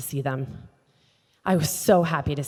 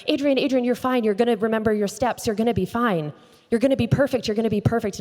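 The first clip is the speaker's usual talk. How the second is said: imitating an anxious pep talk, higher-pitched; urgent reassurance; 5 semitones higher, faster than usual. Dance partner to sobbing woman backstage, urgent mock reassurance. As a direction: hurriedly soothe someone, voice lifted high.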